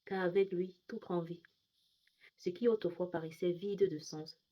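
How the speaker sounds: measured poetry recital with pauses between lines; poem reading. Acted. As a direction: recite a Christian poem line by line, easing down as it closes. Reads own poem aloud. (lecture posée de poème)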